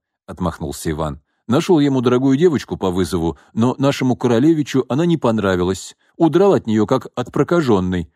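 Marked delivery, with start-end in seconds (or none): 1.5-8.1 louder mocking scorn; scoffing. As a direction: scoff at the son. Father scoffing at son.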